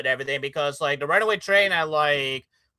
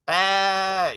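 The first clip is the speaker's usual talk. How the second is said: bleating like a ram; 3 semitones higher than usual. Pretend. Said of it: "echoes the title".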